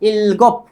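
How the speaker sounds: इलगोप with a held l and a short stopped p; modelled pronunciation. Shown as a demonstration. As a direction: say इलगोप as il-gop, closing on the p. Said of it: "इसका उच्चारण हो गया इल".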